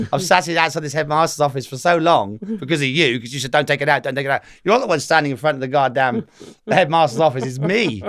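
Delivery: comic indignant complaint; retold exasperation. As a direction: play up the aggrieved son having a go at Dad. Acted-out complaint to his dad.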